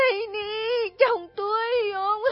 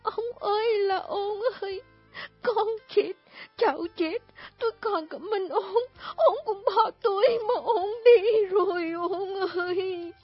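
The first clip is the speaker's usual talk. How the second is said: high, loud wailing lament over her dead husband; keen and sob over the body; a widow's wailing cry, much higher and louder; 8 semitones higher, 5 dB louder than usual. Acted. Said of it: "khóc lóc".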